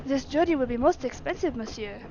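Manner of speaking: put-on lightly French-accented servant. Servant warning master about expense, French accent. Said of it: "French accent is so much easier".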